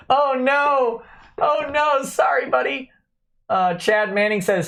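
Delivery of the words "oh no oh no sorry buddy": mock pity. Mock pity at a fan's story.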